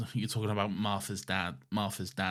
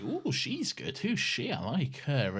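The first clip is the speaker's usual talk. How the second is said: mock impressed Rose; 4 semitones higher than usual. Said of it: "Rose is like".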